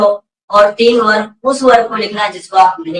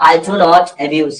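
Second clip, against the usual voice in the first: slow model answer; 4 semitones lower, much slower than usual. Shown as a demonstration. Teacher models answer for class.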